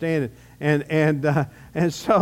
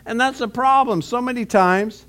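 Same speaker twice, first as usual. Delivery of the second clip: rising sermon delivery; 3 semitones higher than usual. Acted. Pastor urging his congregation to put God first, preaching with mounting force. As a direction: lift the voice and press the point home.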